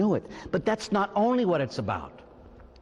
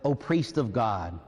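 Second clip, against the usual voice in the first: solemn reading of the sign; 5 semitones lower than usual. Shown as a demonstration. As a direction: read it like a sacred inscription, line by line. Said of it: "a little sign that says".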